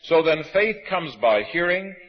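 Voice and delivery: measured, solemn reading of scripture. Acted. Preacher reading Romans to the congregation, solemn and measured.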